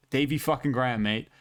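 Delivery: put-on a botched Australian accent blending into English; half-hearted Aussie accent tossed onto a fighter's name; failed Australian accent. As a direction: try an Australian twang on Davey fucking Grant, mate, and miss. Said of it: "I just tried to do an Australian accent with an English".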